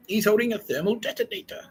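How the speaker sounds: high-pitched mock panic; acted alarm. Warning the room about the captive's rescuer, acted alarm.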